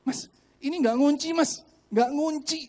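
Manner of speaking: loud, high-pitched alarm; re-enacted panicked yelling; acted panic. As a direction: urgently alert the attendant, shouting. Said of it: "Paniklah saya ya".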